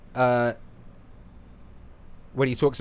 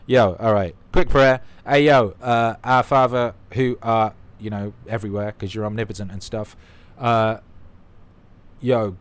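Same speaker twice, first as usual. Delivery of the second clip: mock preacher; 6 dB louder than usual. Self-styled bishop praying for Europe in a loud mock sermon. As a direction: ham up a loud church prayer. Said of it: "Bishop Don Magic Don".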